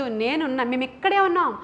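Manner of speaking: retold shout. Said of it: "గట్టిగా అరిచారంట".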